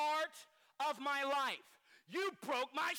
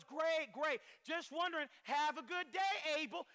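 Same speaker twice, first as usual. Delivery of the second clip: quick, higher, sugary false casualness; fake friendly; 4 semitones higher than usual. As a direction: sweet-talk him while plotting. Cain scheming, fakes friendliness to Abel.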